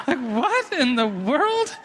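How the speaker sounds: amused disbelief, laughing through it. Real, not acted. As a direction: laugh while asking.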